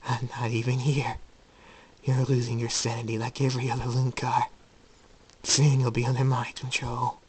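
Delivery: lightly voiced gloating madman; insane double, mocking. Insane Jacob mocking his failing sanity, gloating.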